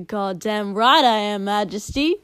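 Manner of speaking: loud, brash bellow. Acted. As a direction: roar it back at him proudly. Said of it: "she bellowed".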